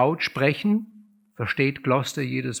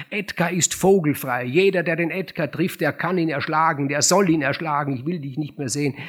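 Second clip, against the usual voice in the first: angry banishment; 2 semitones higher, 3 dB louder than usual. Acted. Gloucester disowning Edgar, raising his voice in anger. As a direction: cast the son out for good.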